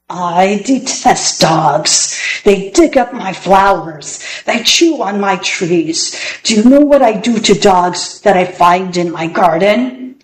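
a hint of a growling old magician. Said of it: "a voice that was more like a growl".

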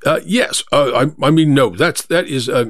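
hesitant, halting false starts; flustered stammer. Acted. Narrator answers the cab driver too hastily, flustered. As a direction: fumble for the words, backtracking. Flustered passenger corrects himself.

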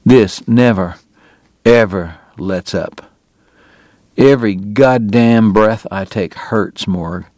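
slow, strained with pain; a sick man admitting his misery slowly; pained confession. Acted. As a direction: drag each word out through the hurt.

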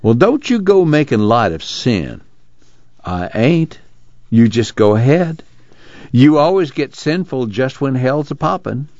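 lightly voiced rural bickering; slow, lifted back-and-forth scolding; bickering Pa and Uncle John.

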